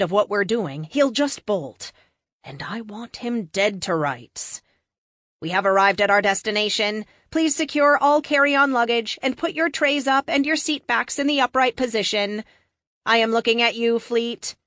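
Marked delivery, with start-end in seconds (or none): 5.4-14.5 clear, announcer-like ship computer, higher and louder; polite pilot-computer with a teasing jab; ship AI announcement. Acted. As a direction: announce the landing like an onboard AI. Jet AI announces arrival.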